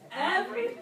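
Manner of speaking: mock disbelief, pitch jumping up; incredulous. To the congregation, a mock shocked question. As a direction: feign shock at the demand. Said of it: "I mean, like".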